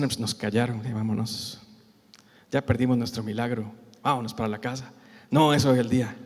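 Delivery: low, soft, defeated voice; mock discouragement, very subdued; resigned. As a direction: give up and head home. Acts out the blind men giving up.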